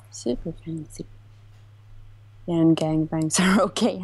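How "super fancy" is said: soft playful whisper, much quieter. Pretend. Streamer repeating her boast to chat in a whisper. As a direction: whisper it back to yourself.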